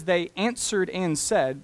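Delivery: "answered" leaned on, phrase slowed; slow down and weigh "answered"; stress on answered. Shown as a demonstration. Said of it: "it says".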